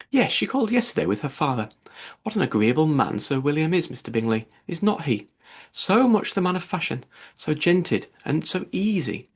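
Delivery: mother praising a neighbour to Bingley; lightly voiced Mrs Bennet. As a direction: gush over Sir William.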